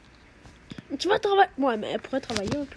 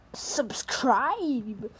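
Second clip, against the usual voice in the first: « Subscribe » dit en anglais avec un fort accent français. Real, not acted. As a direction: prononcer « Subscribe » à la française, en se moquant de soi. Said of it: "avec mon accent de merde". (demande l'abonnement en anglais, accent français)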